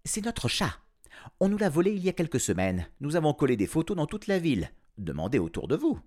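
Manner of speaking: breathless mother. A narrator's reading. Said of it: "dit d'une voix haletante".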